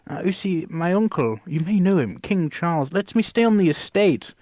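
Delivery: put-on lofty, plummy posh English accent; hammed-up posh English accent; posh royal accent. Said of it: "Posh Ewan freaks me out".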